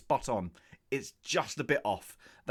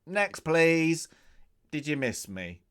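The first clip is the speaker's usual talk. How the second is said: cocky actor quote; 4 semitones higher, 6 dB louder than usual. Retold or imitated. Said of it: "he's just gone".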